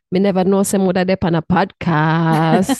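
Jamaican patois, lightly done; Jamaican dialect. Shown as a demonstration. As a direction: say it in a Jamaican accent. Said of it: "in my Jamaican dialect".

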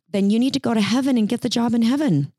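ordinary talk, nothing marked

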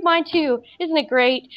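high, lightly voiced giddy friend. High friend answering the panicking narrator, giddy. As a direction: mimic a friend loving the rush.

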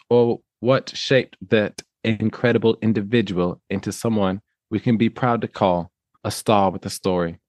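put-on playfully assumed English accent. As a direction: read the article as a put-on Englishman. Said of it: "do it in an English accent".

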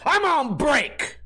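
high, slow, drawn-out brush-off; curt dismissal. Retold or imitated. Cashier refusing to scan a customer's ID, slow high brush-off.

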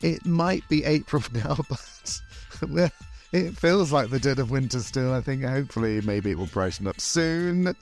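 lightly campy showbiz host; campy drag queen. Acted. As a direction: camp it up as a glamorous hostess. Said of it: "the voices".

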